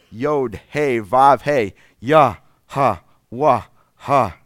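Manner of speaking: each syllable of "Yod, He, Vav, He, Yah, Ha, Wah, Ha" pushed out on a breath; breathy name syllables. Shown as a demonstration. Preacher showing the congregation the name as breath, breathy. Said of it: "Sounds something like this".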